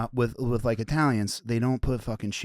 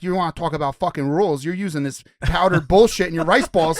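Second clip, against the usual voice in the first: mock comeback; 4 semitones higher, 4 dB louder than usual. Retells own comeback to Frank.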